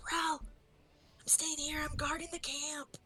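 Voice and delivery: high, drawn-out character voice; little camp guard character. Acted. Player as Ick telling Rel she is guarding camp, high character voice. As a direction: call it out high and slowly. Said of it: "gonna actually kind of say to Rel".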